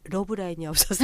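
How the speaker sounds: words tipping into laughter; laughing. Real, not acted. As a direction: joke it, then crack up. Joking reason, bursts into laughter. (웃음 섞인 목소리로)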